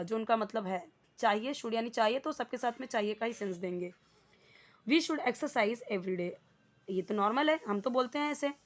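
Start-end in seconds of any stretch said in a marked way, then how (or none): 4.9-6.3 very slow, each word spaced; slow model sentence. Shown as a demonstration. Teacher reading example sentence, very slow. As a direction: read it for the class to copy. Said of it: "model sentence read slowly".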